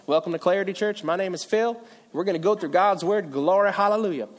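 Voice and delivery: Southern church greeting in a Virginia accent. Shown as a demonstration. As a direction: put on a friendly Virginia twang. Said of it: "talking from my friends from Virginia".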